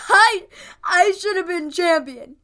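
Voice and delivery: slow, high, whiny fake crying. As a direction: whine it like a sore loser. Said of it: "like, whiny cry voice".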